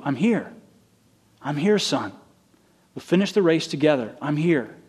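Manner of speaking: tender. Acted. God speaking tenderly to believer.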